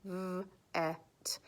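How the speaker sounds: v-et whispered, v and et split; whispered sounding out. Shown as a demonstration. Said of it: "So I sounded it out".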